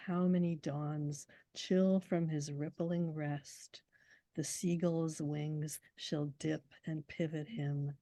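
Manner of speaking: slow, measured poetry recital; poem reading. Acted. Poet reciting Crane's proem to the interviewer, slow and measured. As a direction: let each line ring out slowly.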